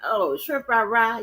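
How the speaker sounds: hammed-up fake Asian accent, high; badly faked Asian accent; mock Asian accent. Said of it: "You can't do Asian".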